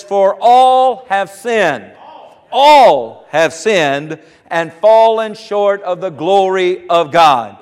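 slow, weighty stress on ALL; emphatic scripture. Real, not acted. Preacher quoting Romans to the congregation, emphatic and slow.

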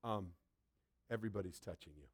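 a hint of eye-rolling disciples; condescending disciples. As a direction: talk down to him gently. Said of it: "This is the attitude they're having now".

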